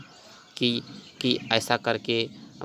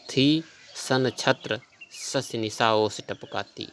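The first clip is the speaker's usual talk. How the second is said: slow poem recitation; slower than usual. Acted. Repeats the verse line slowly.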